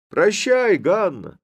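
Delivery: high, loud call; shouting farewell. A narrator's reading. Young lad calls goodbye to Hanna, shouting. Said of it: "закричал в это время один из парубков".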